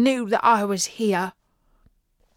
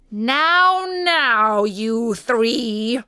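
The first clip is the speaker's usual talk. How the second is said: scolding nurse; 3 semitones higher, 4 dB louder, much slower than usual. A narrator's reading. Vet calms the noisy animals.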